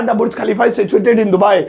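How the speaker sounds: slow, careful model English; slow clear teacher dictation; teaching model sentence. Shown as a demonstration. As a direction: say the right answer slowly. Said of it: "इसी तरीके से".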